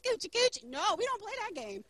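put-on playful rebuke to a baby, ending in high coochie-coo; lightly baby-talk the rebuke, lifting at the end. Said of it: "If a baby say something crazy".

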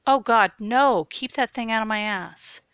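loud, high desperate shout; panicked protest. A narrator's reading. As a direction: shout in horror to make it stop. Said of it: "Even as Jared protested".

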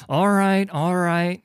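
high, loud plea; pleading. A narrator's reading. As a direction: give in fast, pleading at high pitch. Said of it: "he pleaded".

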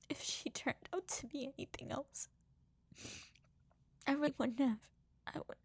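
crying. Real, not acted. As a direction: speak through the tears with love. Crying while praising mom.

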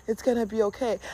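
soft, gentle inner reassurance; little reassuring voice. Acted. Little voice answering the depressed one, softly reassuring. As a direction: reassure softly, without pushing. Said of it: "that little voice that says".

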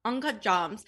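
"jams" stretched long in mimicry; imitated viral pronunciation.

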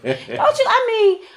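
high-pitched exasperated demand, retold; frustrated. Woman retelling her prayer demanding God's answer, frustrated. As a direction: challenge God, pitch up and words tumbling out. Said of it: "I'm getting frustrated".

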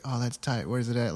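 lightly keen, friendly curiosity; sounding interested. Retold or imitated. Pro skater asking a fan about a spot, interested. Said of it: "Like, he sounded interested".

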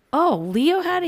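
a retold incredulous question. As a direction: act shocked that Leo had it. Her incredulous reply retold.

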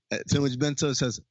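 ordinary delivery

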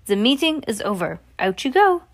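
high, loud shooing out; dismissing the witches, high and loud; witch dismissal. Acted. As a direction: send them off sharply.

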